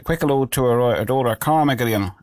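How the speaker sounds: light mock Irish accent; imitating their accent. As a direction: put on a touch of the local Irish accent. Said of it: "that is my impression of their accent".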